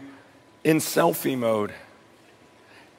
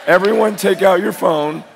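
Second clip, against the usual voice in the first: firm, louder repeated instruction; louder command; 4 semitones higher, 6 dB louder than usual. Real, not acted. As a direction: call it out to the whole room. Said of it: "everyone take out your phone for a second".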